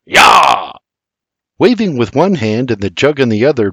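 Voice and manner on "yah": a loud shout to drive the mules; hollering at mules. A narrator's reading. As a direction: holler with gusto. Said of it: "he hollers at the mules".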